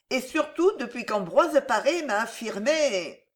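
a hint of a melancholic, worried mother; lightly voiced queen mother, anxious. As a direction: fuss over a son's health with put-on concern. Catherine plays anxious mother to king.

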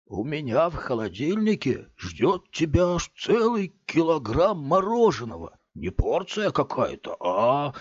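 lightly sweetened, luring tone; sugary voice. Acted. Big man tempting the boy with ice cream, sugary. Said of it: "продолжал он сладким голосом".

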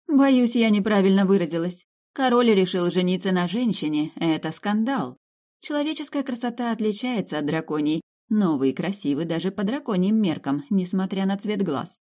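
lightly voiced countess, explaining herself; guileless countess.

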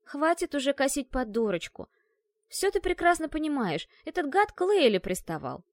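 раздражённо, выше и громче; отчитай кошку, что строит из себя дурочку; сердито. Acted. Ссора, Ашка обвиняет. (сердитый упрёк подруге)

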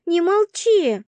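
high, pressing urge; urging. A narrator's reading. Roommate pushing Vasya to talk, pressing. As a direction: demand she speak.

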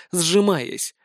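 usual speaking voice

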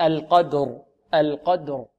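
slow القدر with a clearly sounded ر; voiced final r. Shown as a demonstration. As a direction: voice the ر of القدر to the end. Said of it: "فلا بد من إعطائها جهرها".

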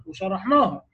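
ordinary talk

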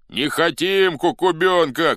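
high, loud, drawn-out protest; shouted refusal. A narrator's reading. Rival faction rejects the candidate, shouting. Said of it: "кричала другая".

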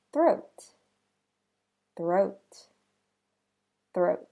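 "three" with a quick th rolling into the r; "three" with the tongue pulling straight back from the th into the r; "three" with the th and r run together fast; TH blended into R. Shown as a demonstration. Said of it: "rolls and pulls back quickly to blend".

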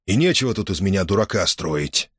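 hoarse, restrained retort; hoarse reply. Acted. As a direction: hold back anger, hoarse. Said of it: "он хрипло ответил".

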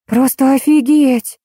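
high, drawn-out exclamation of disbelief; stunned indignation. A narrator's reading. Julia reacting to the narrator's confession, stunned and indignant. Julia jumps up, outraged at revelation.

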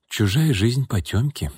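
slow, unruffled remark; calm. A narrator's reading. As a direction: take it slowly, without judging. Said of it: "спокойно сказала Наташа". (спокойно, неторопливо)

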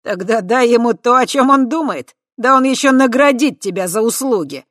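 loud, high cheeky jeer; cheeky leer. A narrator's reading. Voytek cheekily mocking Kava to the crowd, leering. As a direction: tease her lewdly, winking.

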